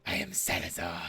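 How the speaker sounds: deep, booming villain declaration; booming echoing villain monologue. Acted. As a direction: boom it out like a grand villain. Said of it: "he brings up his hands and goes".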